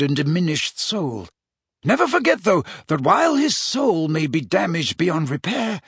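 lightly voiced mentor giving a grave warning; measured, instructive old-wizard delivery; Dumbledore. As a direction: counsel the pupil with emphatic key words.

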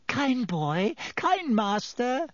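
high, wheedling flattery; fawning plea. A narrator's reading. Pettigrew crawls and flatters Ron.

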